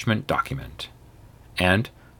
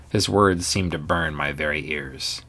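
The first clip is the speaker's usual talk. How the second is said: ordinary delivery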